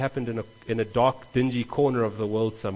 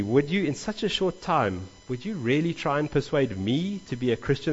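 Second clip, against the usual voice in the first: sarcastic; 2 semitones higher than usual. Shown as a demonstration. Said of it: "That's how it comes across to me".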